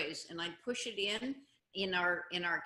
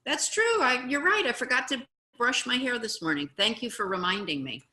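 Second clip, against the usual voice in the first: starts very high, then settles; acted grateful admission; agreeable owning up; 3 semitones higher, 4 dB louder than usual. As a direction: demonstrate happily conceding the point. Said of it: "you can say".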